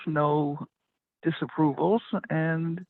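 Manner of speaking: normal talking voice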